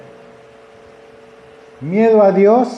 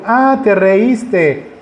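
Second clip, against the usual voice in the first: mock scolding; 4 semitones higher, much slower than usual. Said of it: "No le dijo".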